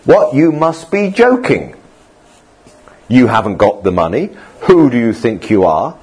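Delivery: mock disbelief, questions lifting at the end; incredulous ridicule. People ridiculing a church's building plans, mock incredulous. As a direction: imitate a doubter scoffing at big plans. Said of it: "people can ridicule us".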